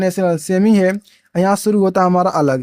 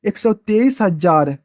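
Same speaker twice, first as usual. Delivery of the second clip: slow, careful reading of the number; teacher showing students how to read the number, slowly; slow demo reading; slower than usual. Shown as a demonstration. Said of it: "आप ऐसे पढ़ेंगे".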